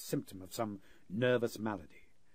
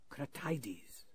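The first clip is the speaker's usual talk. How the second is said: hushed, furtive whisper; a prisoner secretly giving his name; 4 semitones higher, 4 dB quieter than usual. Acted. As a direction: slip the name out unheard. Secret answer slipped past captors.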